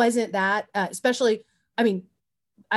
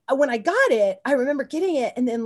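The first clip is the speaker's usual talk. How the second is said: ordinary talk, nothing marked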